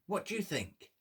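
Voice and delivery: ordinary delivery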